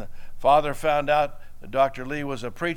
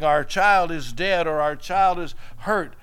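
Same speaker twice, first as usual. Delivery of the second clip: half-acted grief of parents calling the pastor; mock wailing; 4 semitones higher, 4 dB louder than usual. Parents calling the pastor after a tragedy, mild mock wailing. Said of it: "wailing and crying and weeping".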